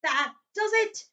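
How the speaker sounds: high, slow, strained calm; forced calm. Acted. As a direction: hold back fury, barely. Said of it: "trying to speak calmly".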